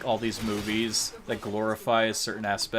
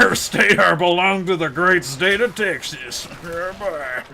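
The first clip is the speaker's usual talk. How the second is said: loud, high, hammed-up Texan accent; memeable Southern accent; 7 semitones higher, 8 dB louder than usual. Claiming a state for Texas, hammed-up Southern accent. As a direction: crow it in a cartoon Southern accent. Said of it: "southern accent".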